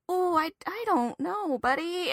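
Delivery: high, slow, nervous dodge; stalling a panicked crew member; 1 awkward evasion. Retold or imitated. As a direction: fumble for an excuse. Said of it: "I was like".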